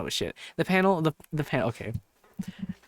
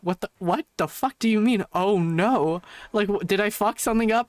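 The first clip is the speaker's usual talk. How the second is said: higher, incredulous echo of the clerk; alarmed disbelief; 5 semitones higher than usual. Retold or imitated. Guest questioning clerk about the card, alarmed disbelief. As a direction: throw the words back in mock alarm.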